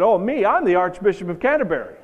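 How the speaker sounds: lightly acted grandiose announcement; mock-grand boy. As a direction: play a cheeky boy making a claim. Urchin makes his own grand claim.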